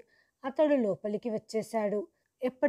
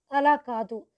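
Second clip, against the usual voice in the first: higher and louder, cutting in; loud protest; 4 semitones higher, 6 dB louder than usual. Retold or imitated. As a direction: shout down the accusation. Doctor denies accusation. (గట్టిగా ఖండించటం)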